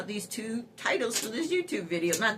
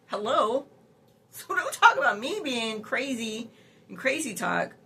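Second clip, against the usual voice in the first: indignant rant; 4 semitones higher than usual. Real, not acted. Ranting at AI.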